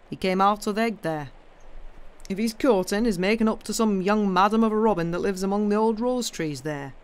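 lightly voiced old countryman, animated; blunt Yorkshire gardener. Gardener telling the girl about the robin's courting, lightly voiced Yorkshire. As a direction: explain it in homely Yorkshire.

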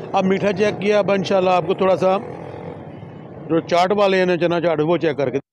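talking between bites; chewing while talking. Real, not acted. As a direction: mouth partly full. Seen 0: holds fruit cup, spoons food to mouth while talking.

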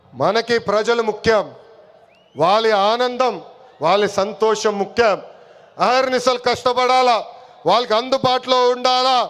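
projected oratory with long pauses; political rally speech. Real, not acted. Party leader addressing the workers at a public meeting, rally oratory. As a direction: address a big crowd, phrase by phrase.

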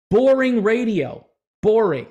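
loud, disgusted boring; emphatic complaint. Real, not acted. Ranting about radio.

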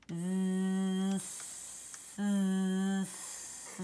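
buzzing Z sliding into hissed S; Z then S. Shown as a demonstration. Teacher contrasting voiced Z and unvoiced S. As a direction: stretch zzz then sss without stopping. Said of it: "Did you hear the difference".

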